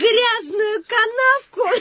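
slow, mocking his own words; mocking quote. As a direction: drawl his boast back at him. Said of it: "как ты там сказал-то".

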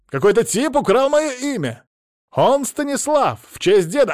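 high, loud indignant protest; outraged outburst. Acted. Young man protesting to his great-aunt, indignant shout.

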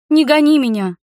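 high, loud, desperate plea; girl begging at the door, high and loud; pleading girl. A narrator's reading. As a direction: beg him not to send her away.

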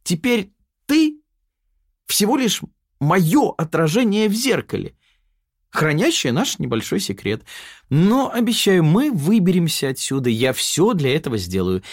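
lifted pitch, smug inner double; Yana's mocking alter-ego voice. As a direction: sneer at Sonya from inside her head.

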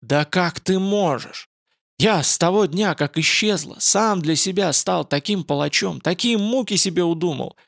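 anguished protest to Radsha; anguished cry. Acted. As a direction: cry out in torment. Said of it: "Игельд вскричал в муке".

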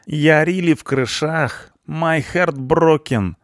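high, drawn-out punk voice; stunned punk. A narrator's reading. Punk dazzled by the blonde, stunned and drawling. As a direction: stretch the slang out in high amazement. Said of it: "сказал обалдевший панк".

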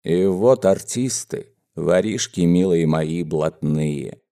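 a touch choked with fondness for his gang; sentimental, moved. Acted. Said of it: "расчувствовался он". (расчувствовавшись, с лёгким умилением)

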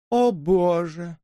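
slow, high, weary sigh of words. A narrator's reading. Elisa sighs at Susan, slow and weary. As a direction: drawl it out bored. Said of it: "вздохнула Элиса".

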